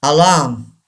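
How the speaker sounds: alarm as "a-LAAM"; silent R. Shown as a demonstration. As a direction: say alarm with a long "aa" and no R. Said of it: "R is not pronounced".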